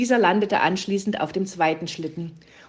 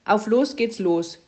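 "Auf los geht's los" called slowly, a bit louder; 3 semitones higher, 4 dB louder than usual. Acted. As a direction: call the command out to Puh. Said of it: "rief Luzi".

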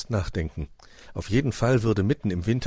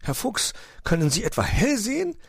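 high, perky little bird; cheeping, high-pitched question; chirpy bird voice; 14 semitones higher than usual. A narrator's reading. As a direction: pipe up brightly like a bird. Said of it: "piepste eine wun-, muntere Vogelstimme".

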